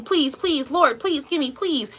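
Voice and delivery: mock begging. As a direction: whine please like a beggar. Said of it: "please, begging".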